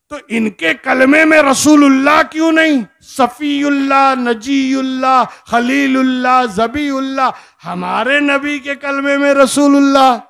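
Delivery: impassioned sermon, ringing out to the crowd; full-force preaching. Acted. Preacher challenges a crowd over the kalma, full-force preaching. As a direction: declaim it insistently, phrase by phrase. Preaches at raised pitch again.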